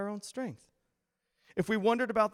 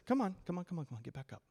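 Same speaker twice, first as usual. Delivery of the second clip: soft, coaxing encouragement, fading very quiet; God; 8 dB quieter, much faster than usual. Acted. Loving father to those who stumble, gentle coaxing. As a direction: urge them up gently, under your breath. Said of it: "He's a loving father".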